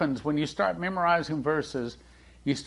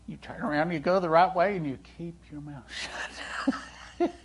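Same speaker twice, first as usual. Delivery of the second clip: quick, unvoiced whisper; hushed punchline; 3 semitones higher, 4 dB quieter, faster than usual. Pastor whispering marriage advice to the men, quickly. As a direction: whisper it like a secret tip.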